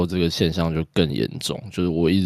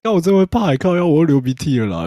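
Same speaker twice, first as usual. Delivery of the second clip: runny nose; 10 semitones higher, 4 dB louder than usual. Real, not acted.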